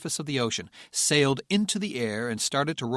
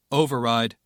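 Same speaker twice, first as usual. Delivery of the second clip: commanding; 6 dB louder than usual. Acted. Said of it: "Patrick ordered".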